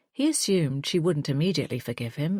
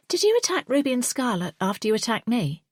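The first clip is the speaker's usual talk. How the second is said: sharp, loud, higher angry demand; barking angrily; 6 semitones higher, 3 dB louder than usual. A narrator's reading. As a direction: bark the question at him. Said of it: "I bark at him".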